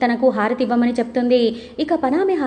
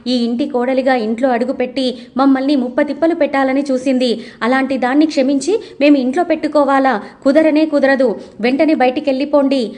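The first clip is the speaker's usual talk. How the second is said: mildly raised, insistent retold refusal; said loudly. Daughter refusing to let Ananya stay, mildly raised voice. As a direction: push back a little louder, not shouting. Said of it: "అని లహరి గట్టిగా చెప్తుంది".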